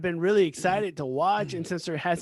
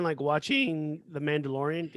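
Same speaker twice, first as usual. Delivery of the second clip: voice cracking; 3 semitones lower than usual. Real, not acted. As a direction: voice cracks on the word watching. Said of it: "my voice cracked".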